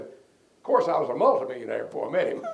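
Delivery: loud punchline breaking into laughter; retold loud, jovial brag; big laughing boast. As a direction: crack up as you boast. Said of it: "He laughed real big".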